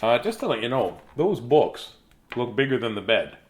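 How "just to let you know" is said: usual speaking voice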